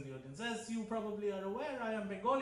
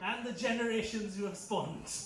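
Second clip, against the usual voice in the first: slow, put-on British club English; fake British accent. Shown as a demonstration. Comedian teases the club members, slow fake British accent. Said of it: "Nobody else speaks like this".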